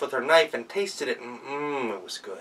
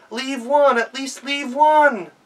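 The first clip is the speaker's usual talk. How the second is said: much higher and louder, slow desperate yell; yelling after; 13 semitones higher, 8 dB louder, slower than usual. Acted. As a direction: master yells after the fleeing guest, desperately. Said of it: "began yelling after his guest".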